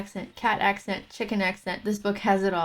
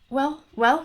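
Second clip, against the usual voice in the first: higher-pitched expectant call; eager cry; 6 semitones higher, 4 dB louder than usual. A narrator's reading. Robbers hailing their returning captain, eager cry. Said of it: "cried them all".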